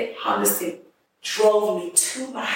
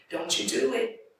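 slurred voice; 3 semitones higher, 6 dB quieter than usual. Retold or imitated. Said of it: "In her slurred voice".

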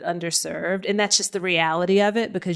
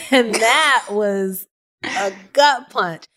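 laughing; 3 semitones higher, 5 dB louder, much slower than usual. Real, not acted. Laughing at son's remark.

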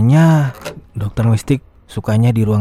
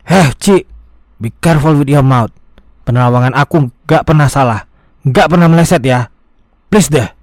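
indignant retort; 4 semitones higher, 5 dB louder than usual. Acted. Egi snaps back at Angel.

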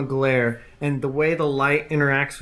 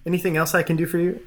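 simpering; 2 semitones higher, much faster than usual. Acted. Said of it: "he walks back".

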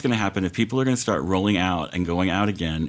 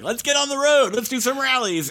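Trump impression. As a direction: squeal it like an eager Trump itching to rally. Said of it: "He's like".

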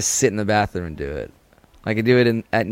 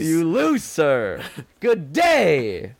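higher, hammy indignant dismissal; Willy Wonka impression; 4 semitones higher, much slower than usual. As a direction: play the outraged candy man. Willy Wonka parody quote.

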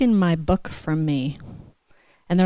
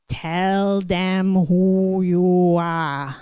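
echoed dad advice; much slower than usual. Retold or imitated. Remembered father's words echoing.

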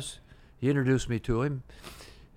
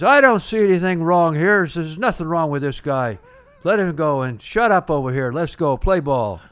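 louder, firm call that nothing is wrong; loud umpire's verdict; 3 semitones higher, 6 dB louder than usual. Retold or imitated. Umpire shouting toward the manager to quit and play ball, loud. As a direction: tell the bench off and get on with the game.

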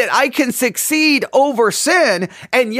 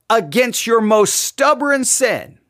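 usual speaking voice

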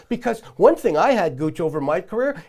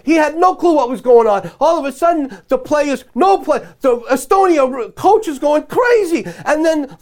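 higher, louder heated rant; 4 semitones higher, 4 dB louder than usual. Acted. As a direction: tell it all fired up, like a real grievance. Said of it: "this is Rosie's Rant".

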